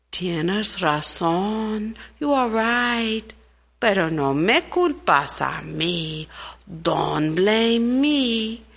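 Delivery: slow, unhurried rain voice, deflecting blame; lightly voiced rain, slowly passing the blame; a hint of the slow rain. Rain answers the ant.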